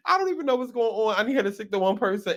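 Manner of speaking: rattled off fast. Shown as a demonstration. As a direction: rush the repeat quickly. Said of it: "repeats the line faster".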